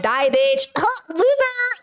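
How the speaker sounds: mock gamer taunt with a laugh; aggressive gamer trash talk. Playfully trash-talking partner over video games, aggressive. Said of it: "aggressive in my, like, gamer language".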